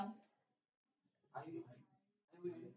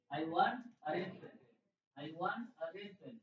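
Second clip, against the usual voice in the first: slow model sentence; 3 dB louder, much slower than usual. Shown as a demonstration.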